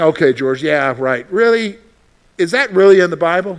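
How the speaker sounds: doubting congregant scoffs; mock disbelief, yeah right; skeptical listener. Congregant doubting the pastor George, skeptical scoff. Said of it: "you're saying".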